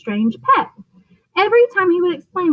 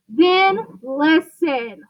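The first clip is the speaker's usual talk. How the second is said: mild mock roar; 2 semitones higher, much slower than usual. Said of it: "roared Mister Popper".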